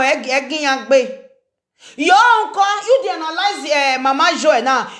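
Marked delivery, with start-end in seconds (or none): 2.0-4.9 confrontational call-out. Real, not acted. Vlogger challenging someone over analyzing Mama Joy, confrontational call-out. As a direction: call them out, pitched well up. Calls out at the person addressed.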